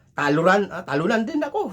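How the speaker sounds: high, loud, lightly voiced tree giant; a sulky giant admitting he loses too; kapre's reply. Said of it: "sabi nung kapre".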